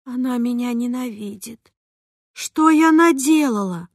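a mother dissolving into sobs; tearful. A narrator's reading. Mother fearing her sister hates her, tearful cry. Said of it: "залилась слезами".

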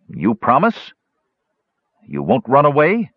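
a hint of a wary little gully dwarf; suspicious gully dwarf. Numskull asking Flint for a promise, suspicious.

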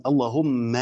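اللهم ending in a doubled "mma"; final fatha. Shown as a demonstration. Teacher shows the meem's vowel, final fatha on اللهم. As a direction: hold the doubled meem of اللهم, then open to "a". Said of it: "وفتحت الميم".

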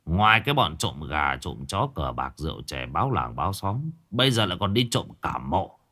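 put-on a low, scolding old man, unhurried; gruff old man scolding. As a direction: scold the grave-robbing boys like a village elder. Old man Đạn scolds youths. (ông già mắng mỏ, giọng trầm)

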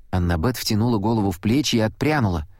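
ordinary delivery, nothing marked

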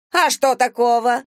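high, loud defensive snap; snapping. Acted. Vagrant snaps at the captain over digging in trash, loud. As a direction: bite back at the captain. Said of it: "окрысилась та".

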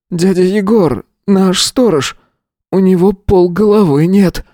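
stunned, barely holding together; a hint of shocked boy. A narrator's reading. Boy tells the teacher he found the dead guard.

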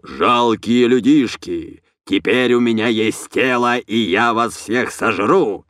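slow, booming alien overlord threat; booming monster voice. Acted. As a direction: play a mock monster to scare her. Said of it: "громким басом воскликнул".

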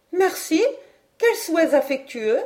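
moquerie rieuse, voix haute; merci lancé en riant de bon cœur. Acted. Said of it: "s'écria Hélène en riant de tout son cœur". (Hélène se moque gaiement, en riant)

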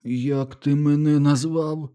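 slow, hoarse, stunned question. A narrator's reading. Teddy hoarsely asking Milo what he called him. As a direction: rasp it out, hurt and shocked. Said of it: "хрипко промовив Теді".

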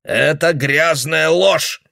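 put-on old man calling the girl a liar; slow angry accusation. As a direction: fling the accusation at her.

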